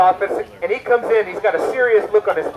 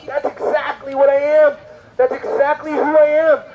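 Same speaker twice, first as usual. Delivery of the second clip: higher-pitched, emphatic realisation; startled recognition; 6 semitones higher than usual. Retold or imitated. Young reader recognises himself in the Bible, struck. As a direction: relive the moment of being struck by it.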